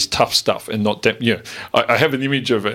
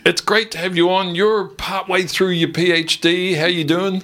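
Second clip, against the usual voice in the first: bright curious science host; 7 semitones higher than usual. Real, not acted. Host welcomes PhD student guest.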